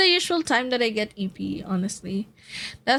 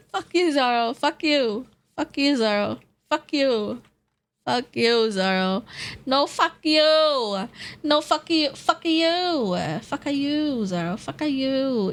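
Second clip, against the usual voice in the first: laughing curse; 4 semitones higher than usual. Real, not acted. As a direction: cry out through laughter. Repeated playful curses at Zara.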